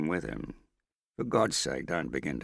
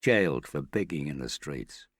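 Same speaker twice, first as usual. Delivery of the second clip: louder, bitter hatred; hateful rant; 3 semitones higher, 4 dB louder than usual. Acted. The Australian raging about Morris to Hester, bitter and louder. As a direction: spit out the revenge fantasy.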